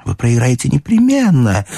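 lightly voiced twitter, slightly high; щебет мадемуазель Бланш. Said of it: "защебетала мадемуазель Бланш". (лёгкий женский щебет)

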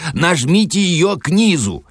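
very high, insistent instructions; acted yell at contained volume; shouting over water. A narrator's reading. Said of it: "выкрикивал Филипп Филиппович".

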